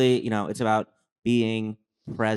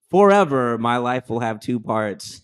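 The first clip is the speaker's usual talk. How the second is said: loud gushing declaration; mock awestruck; 5 dB louder than usual. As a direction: proclaim it like a convert. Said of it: "I was like".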